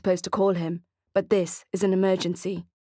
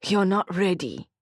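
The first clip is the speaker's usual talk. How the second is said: scoffing. Acted. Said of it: "Lewis scoffs".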